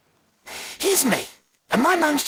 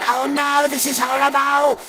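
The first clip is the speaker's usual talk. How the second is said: disgusted cry; 6 semitones higher, 5 dB louder than usual. Acted. Child tasting hated tomato.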